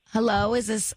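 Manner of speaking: trying out a Southern accent; attempted Southern phone greeting; hammed-up Southern accent. Shown as a demonstration. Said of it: "Let's hear Southern".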